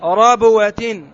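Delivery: ربوة drawn out very slowly, each sound clear; slow model reading. Shown as a demonstration. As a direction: stretch ربوة out for the student to copy. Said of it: "هكذا تقرأها".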